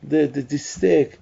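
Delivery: high, pleading voice, slowing at the end; pleading hand. Pretend. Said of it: "And the hand is screaming".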